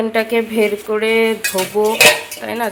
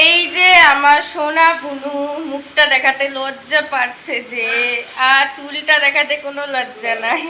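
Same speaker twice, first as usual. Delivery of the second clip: higher, slower cooing to little sister; fond big-sister teasing, a little higher and slower; teasing affection; 4 semitones higher, 3 dB louder than usual. Real, not acted.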